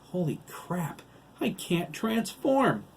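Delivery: high, rising cry of alarm; panicked dread. A narrator's reading. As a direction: cry out as dread takes hold. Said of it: "his face filled with dread".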